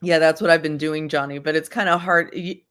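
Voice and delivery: strained, breath held; holding breath. Real, not acted. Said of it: "hard to hold your breath and talk".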